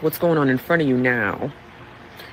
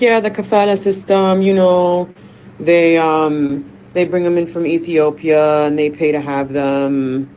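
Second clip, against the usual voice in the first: higher, louder retelling of the woman; fan explaining, louder and higher; 3 semitones higher, 4 dB louder than usual. Retold or imitated. Fan at the gate explaining the kafala system, louder and higher. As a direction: lay out the system like a casual insider. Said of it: "She's like".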